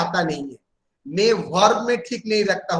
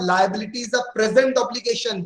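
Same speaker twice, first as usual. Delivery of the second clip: each word spelled out slowly for notes; slow dictation; much slower than usual. Acted. Teacher dictating a definition to students, slow and even.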